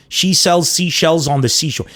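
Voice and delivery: slow, careful run at the tongue twister; measured warm-up read. Shown as a demonstration. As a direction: take each word of the twister deliberately. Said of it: "I'll do a tongue twister challenge".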